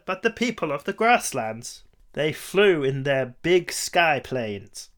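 put-on old-timey sci-fi narrator voice; 1950s narrator. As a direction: deliver it like a vintage newsreel.

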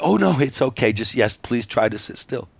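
high, loud, eager reassurance; hasty placating. Retold or imitated. Interviewers reassuring him after his outburst, eagerly placating. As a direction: mimic flustered interviewers smoothing things over.

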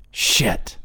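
a hushed, nervous whisper; whispered cuss word. Retold or imitated. Cousin Michael nervously whispers his bedtime cuss word. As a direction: breathe the word out, barely voiced.

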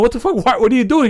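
high-pitched mock bewilderment; baffled demand. Dad finding his kid at the stall, mock incredulous. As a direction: retell a dad's incredulous questioning.

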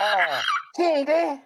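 Rapper impression with Southern accent. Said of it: "why does a rapper have a Southern accent".

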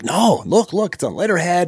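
high, insistent retold protest; flustered neighbor. Neighbor insisting the letter is genuine, flustered. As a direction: imitate a rattled man pleading his evidence. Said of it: "he's getting all flustered".

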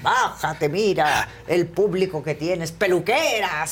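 mock heckle, slowing into drawn-out insults; retold shouting. Pita keeps insulting the audience, mock shouting. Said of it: "Y siguió gritando".

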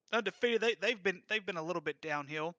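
winded, short gasping breaths; talking while catching his breath. Real, not acted. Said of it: "I cannot catch my breath".

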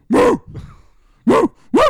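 loud mooing like a cow. Retold or imitated. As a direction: moo like a barnyard cow. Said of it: "The cow says".

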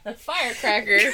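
loud mocking echo. Mocking friend's slip loudly.

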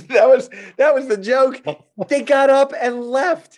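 high, loud disbelief; incredulous. Real, not acted. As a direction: exclaim as if still astonished they walked out. Incredulous after telling the joke.

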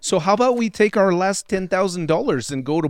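quick, hammed-up bad Canadian accent; a shaky Canadian impression; Canadian prospector pitching a trip, bad Canadian accent. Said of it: "It's a shit Canadian accent".

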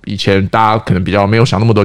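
normal talking voice

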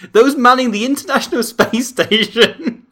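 high, loud reading, breaking into laughter; reading while laughing. Retold or imitated. Reading the absurd article to his co-host, laughing through it. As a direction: read the article aloud, barely holding it together.

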